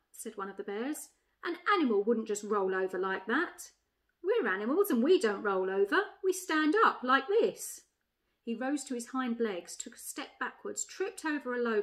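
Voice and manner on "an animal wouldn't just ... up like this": lightly voiced bear, louder and emphatic; objecting bear. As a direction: correct the others as a proud bear. Bear in a read-aloud story.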